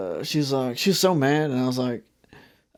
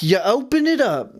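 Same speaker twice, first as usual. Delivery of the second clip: slow, drawn-out disbelief, rising higher; mock incredulous; 6 semitones higher, slower than usual. Clerk to man with ribeye in pants, incredulous. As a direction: stretch out each absurd detail in disbelief.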